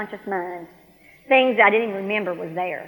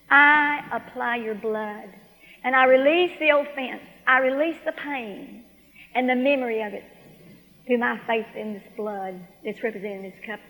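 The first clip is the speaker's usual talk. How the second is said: prayerful; 3 dB quieter than usual. Retold or imitated. Woman releases her pain to God, prayerful.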